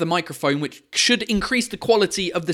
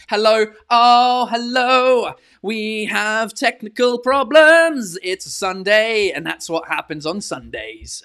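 slow, louder sing-song viewer voice; mock viewer voice; 2 semitones higher, 3 dB louder, slower than usual. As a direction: imitate the chat teasingly. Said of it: "if people on Facebook tell me".

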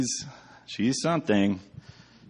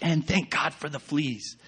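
lightly voiced Betsy; 6 semitones higher than usual. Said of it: "she's like".

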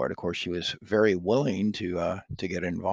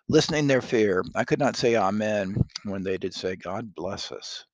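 dramatic Shakespeare reading; 2 semitones higher, 5 dB louder than usual. Acted. Reading Macbeth aloud.

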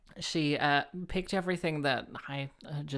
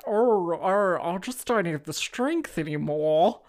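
put-on posh Kath and Kim accent; 3 semitones higher, 5 dB louder, slower than usual. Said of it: "the posh characters that they have in Kath and Kim".

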